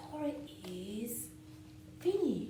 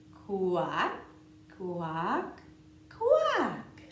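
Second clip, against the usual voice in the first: duck quacking; 8 dB louder, much slower than usual. Pretend. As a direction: quack like a playful duckling.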